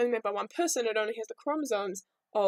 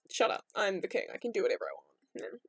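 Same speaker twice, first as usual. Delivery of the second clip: lower, dismissive Zeus voice; lower bossy king; 5 semitones lower, 3 dB quieter than usual. Retold or imitated. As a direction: brush her off like a king. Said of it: "he's like".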